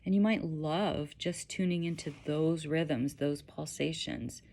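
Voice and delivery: gentle guiding voice with long pauses; unhurried, slightly hushed meditation guide; guided meditation. Acted.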